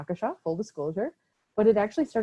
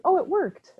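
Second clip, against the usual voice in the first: sarcastic; 11 semitones higher, 4 dB louder than usual. Pretend. Mocking cartoon punchline.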